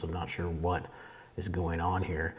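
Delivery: distracted by pinging notifications; over notification pings. Real, not acted. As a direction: trail off as alerts keep pinging. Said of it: "sorry about the notifications".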